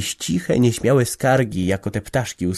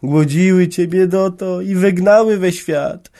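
soft whisper; 9 semitones higher, 4 dB louder than usual. A narrator's reading. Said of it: "szeptał".

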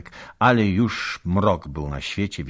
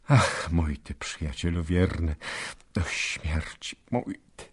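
choked tenderness; 3 dB quieter than usual. Acted. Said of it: "głos mu uwiązł w gardle".

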